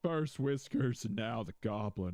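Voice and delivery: indignant homeowner scolding Walter, lightly voiced; mock scolding homeowner. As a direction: tell off the floor-root culprit in a put-on scolding voice. Scolding Peter in character.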